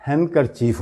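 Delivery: "ہینڈ کرچیف" run together as han-kerchief; silent D. Shown as a demonstration. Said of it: "ڈی پر stress نہیں کریں گے". ("ہینڈ کرچیف" کو "ہین کرچیف"، ڈی خاموش)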